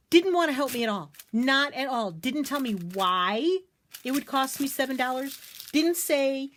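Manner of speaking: worked up and aggrieved; indignant. Real, not acted. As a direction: hammer each grievance about the clerk. Complains about unhelpful other clerk.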